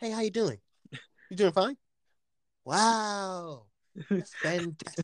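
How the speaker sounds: fake polite phone voice, drawn-out "wow". Showing the voice you switch to when talking to people with money: a phony phone-call voice. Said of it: "Like that phone call voice".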